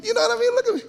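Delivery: a high laughing question. Real, not acted. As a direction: chuckle right through the words. Laughing at his own shoes.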